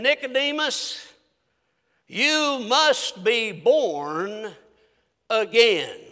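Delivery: slow, drawn-out tender appeal; loving. Retold or imitated. Jesus telling Nicodemus he must be reborn, mildly loving. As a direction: lightly voice a loving plea, very slowly. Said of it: "looked at him out of a loving heart and said".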